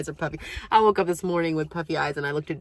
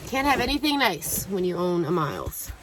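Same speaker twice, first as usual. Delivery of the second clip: talking while out of breath; a little winded between words; 4 semitones higher than usual. Real, not acted. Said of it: "Sorry, I'm a little out of breath".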